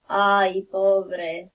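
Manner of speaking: low, softened sympathy; pitying. Shown as a demonstration. Pitying reply to sad answer.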